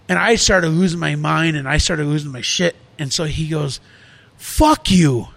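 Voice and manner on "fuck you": retold angry curse. Acted argument, employee curses boss.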